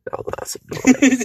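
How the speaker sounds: high, slow silly Aussie voice; Australian accent. Pretend. Repeating the gag for laughs, high silly Australian accent. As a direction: stretch it out high, mock Australian. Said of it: "talk in an Australian accent".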